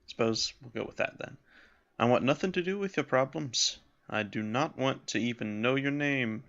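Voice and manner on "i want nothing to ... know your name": put-on just a touch of a Scottish accent; light Scottish accent. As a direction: keep the Scottish accent subtle. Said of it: "A light Scottish accent seems better".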